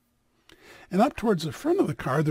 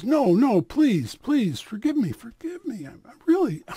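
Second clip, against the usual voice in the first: loud, higher pleas; desperate begging; 4 semitones higher, 5 dB louder than usual. Acted. Ashamed man begs the rabbi for forgiveness, loud. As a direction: beg him over and over.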